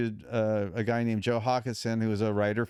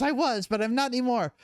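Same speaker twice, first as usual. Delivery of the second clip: much higher, frantic retold voice; hyperventilating caller; 12 semitones higher than usual. Namer on vacation answers him, imitated as frantic and hyperventilating. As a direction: imitate her urgent, high-pitched excitement. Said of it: "my phone rings with her hyperventilating".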